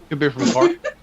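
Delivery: put-on light Irish Cork accent; a touch of a Cork Irish voice. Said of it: "He could have an Irish accent".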